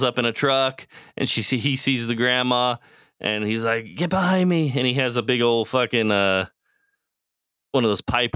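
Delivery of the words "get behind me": shield her with a sharp command; protective dad. Retold or imitated. Dad protecting his daughter, urgent and higher. Dad faces zombie grandma.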